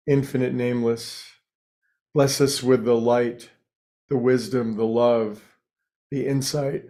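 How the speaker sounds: calm, measured prayer in short phrases. Real, not acted. Meditation leader offers the group's daily prayer, calm and measured prayer. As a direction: pray gently, pausing between each name. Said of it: "today's little prayer, affirmation, intention".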